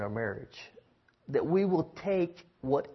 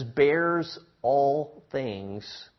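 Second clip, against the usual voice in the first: very slow, measured reading of scripture; drawn-out reverent verse reading; much slower than usual. Acted. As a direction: lay each phrase down slowly like holy words.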